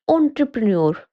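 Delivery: एंटरप्रेन्योर said with an "on" start, "on-truh-pruh-nur"; correct pronunciation. Shown as a demonstration. Teacher giving the right एंटरप्रेन्योर. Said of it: "इसकी pronunciation है".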